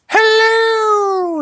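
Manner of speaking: high shrill falsetto hello; mom voice. Retold or imitated. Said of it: "That's how I answered the".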